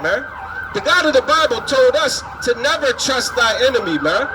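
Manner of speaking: normal talking voice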